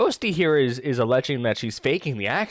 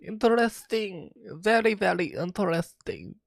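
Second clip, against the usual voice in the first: higher, put-on voice of intrigue; mock intrigue; 5 semitones higher than usual. Streamer answering chat about accent clips, mock intrigue. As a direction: play at being very intrigued.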